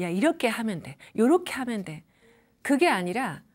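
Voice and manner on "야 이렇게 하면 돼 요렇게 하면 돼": problem-solving tone. Shown as a demonstration. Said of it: "문제를 해결하는 말투로".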